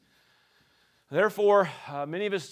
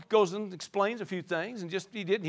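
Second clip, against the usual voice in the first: normal talking voice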